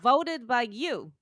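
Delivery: booming announcer reading nominees; fighting game announcer. Pretend. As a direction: hype up the category like a game announcer. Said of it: "I'll try to do an announcer voice".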